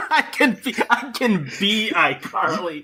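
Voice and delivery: laughing. Real, not acted. Laughing at iCarly reboot joke.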